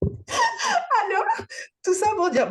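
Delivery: parole secouée de rire, voix aiguë; en riant. Real, not acted. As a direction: reprendre la parole entre deux rires. Éclate de rire en reprenant. (en riant aux éclats)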